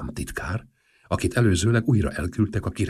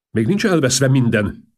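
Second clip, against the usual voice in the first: loud, higher, slow rallying line; 7 semitones higher, 7 dB louder than usual. Acted. Prime minister rallies the king, loud and slow. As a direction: rouse the king to resist.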